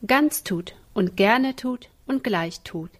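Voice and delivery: slow, stressing "ganz", "gerne" and "gleich"; emphatic listing. Acted. Mother teaches obedience, weighting "ganz", "gerne", "gleich".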